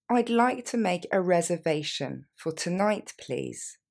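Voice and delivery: slow, careful model reply. Shown as a demonstration. Teacher to learners, slow model reply. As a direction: take it slowly for learners. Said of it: "On la reprend plus lentement".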